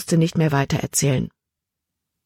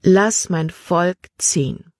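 flehend; slower than usual. Acted. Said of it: "flehte er".

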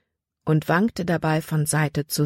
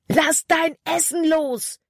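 high, slow, urgent shout; 12 semitones higher, slower than usual. A narrator's reading. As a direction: bellow the order across the clearing. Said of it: "schrie Caleb".

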